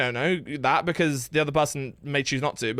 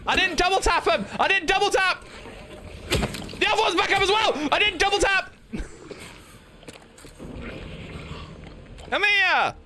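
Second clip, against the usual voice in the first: much higher West Country voice while fighting; a cheeky Bristolian calling the monsters; Bristol accent; 12 semitones higher than usual. Acted. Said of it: "I can feel my accent".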